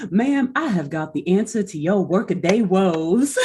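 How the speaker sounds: smooth fifties pitchman voice; snake oil seller. Acted. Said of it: "like, snake oil salesman voice".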